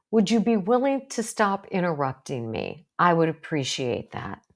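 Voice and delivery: clear and kind. Shown as a demonstration. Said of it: "So you want to be clear".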